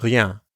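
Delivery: Rien with a throaty French R and nasal ien; Rien, R from the back of the throat; uvular r. Shown as a demonstration. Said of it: "Notice how rien has the French R sound".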